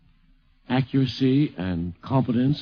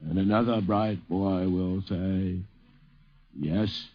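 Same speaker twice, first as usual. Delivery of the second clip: very slow, drawn-out mock Sandburg; slow, deliberate Sandburg imitation; imitating Carl Sandburg; much slower than usual. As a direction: stretch every phrase like a grand old poet. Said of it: "went like this".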